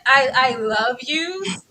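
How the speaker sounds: mock drawn out. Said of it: "The instant".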